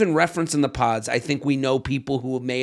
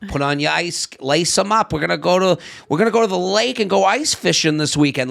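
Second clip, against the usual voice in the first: imitating a cheery Minnesota local's accent, half-hearted; 3 semitones higher than usual. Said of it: "I can't even do the accent".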